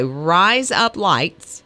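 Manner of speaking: Australian accent. Shown as a demonstration. Host repeating after colleague, slow Australian accent. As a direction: stretch it out in Australian. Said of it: "your best Australian accent".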